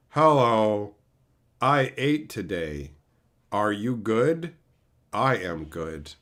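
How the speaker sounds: low, slow, empty robotic monotone; hollow dead-eyed voice. Retold or imitated. The old friend now hollowed out by aliens, low slow monotone. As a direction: speak like a hollowed-out shell. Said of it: "hollowed out by aliens".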